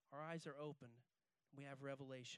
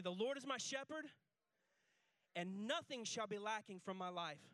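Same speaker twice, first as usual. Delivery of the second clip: raised, louder declaration for all to repeat; rousing call-and-response; 5 semitones higher, 7 dB louder than usual. Shown as a demonstration. Pastor leading the congregation one more time, rousing. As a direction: lead the room in it with more force. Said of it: "say it one more time".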